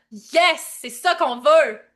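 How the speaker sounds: loud, drawn-out approval; emphatic cheer. Real, not acted. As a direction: cheer it loudly, stretching it out. Cheering on the chat's answers.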